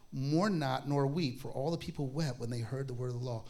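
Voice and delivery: solemn Bible reading; scripture reading. Acted. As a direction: read the verses out to the congregation.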